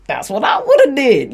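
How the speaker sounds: a hint of a smug alter ego; lightly voiced cocky inner self; shadow self voice. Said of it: "as my shadow self".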